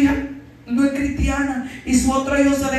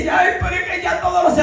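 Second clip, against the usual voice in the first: fretting mother; 5 semitones higher, 4 dB louder, faster than usual. Retold or imitated. Mother frets.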